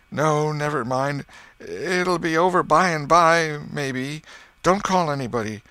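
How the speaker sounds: hammed-up pained whine; feigned suffering. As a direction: play the brave invalid, dragging out each word. Tom feigns suffering to Sid.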